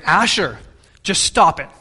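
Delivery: mildly angry, firm telling-off; angry parent. Retold or imitated. Father fed up with his fussy son, retold angrily. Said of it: "I said it angrily".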